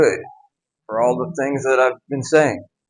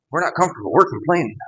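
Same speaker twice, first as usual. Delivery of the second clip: lilting sermon cadence, pitched higher; mock Southern Baptist preacher; 3 semitones higher, faster than usual. Speaker pokes fun at his own accidental sermon alliteration, mock-preacher singsong. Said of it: "sound like a Southern Baptist sermon alliteration".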